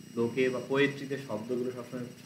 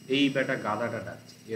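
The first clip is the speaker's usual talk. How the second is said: a touch of scorn on এই বেটা; mock scornful; 4 dB louder than usual. Shown as a demonstration. Teacher giving a colloquial Bengali rendering, lightly scornful. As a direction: sneer lightly at the donkey. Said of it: "এরকম একটা বাংলায় বলা যেতে পারে".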